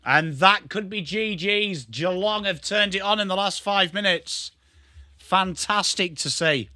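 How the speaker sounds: measured, stretched-out commentator delivery; live football commentary. Pretend. Streamer calls Geelong's late surge for viewers, commentator style. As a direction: sum up the match like a TV commentator.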